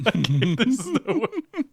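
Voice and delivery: strained high attempt at a Gungan voice, slowing down; failed try at a Gungan voice. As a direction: stretch up high and drag it out as a Gungan. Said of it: "I can't do this voice".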